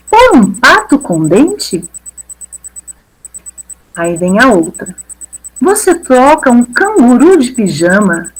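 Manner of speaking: lively storybook read with bouncy rises; animated read-aloud of a rhyming children's book. Shown as a demonstration. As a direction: read it like showing kids the book. Reads picture book to class.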